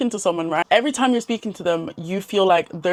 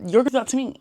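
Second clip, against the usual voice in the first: suspicious thought; 5 semitones higher, faster than usual. Retold or imitated. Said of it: "people just think".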